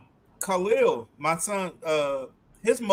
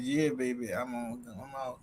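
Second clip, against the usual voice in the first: imitating Miss Linda; 5 semitones lower, 12 dB quieter than usual. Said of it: "In the same way Miss Linda said".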